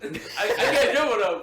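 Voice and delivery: laughing through the words; chuckling while admitting it. Real, not acted. Laughing at own weak dribbling.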